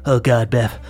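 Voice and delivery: put-on gasping panicked old warrior; panic, clutching the heart; panicked dying man.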